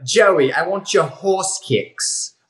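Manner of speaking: slow, drawn-out mock command; demanding choreographer. Choreographer ordering Joey's horse kicks, slow mock-demanding call. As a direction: call it out slowly, imitating a choreographer. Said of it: "The choreographer would be like".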